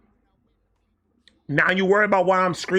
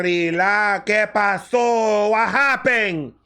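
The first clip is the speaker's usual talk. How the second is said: questioning Hispanic mother; much slower than usual. Retold or imitated. Mother asking crying son.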